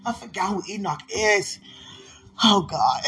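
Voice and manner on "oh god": real cry. Real, not acted. Overwhelmed during emotional prayer.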